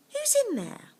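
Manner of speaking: a lightly voiced monk calling. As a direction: call out into the dark pit. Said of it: "asked the monk".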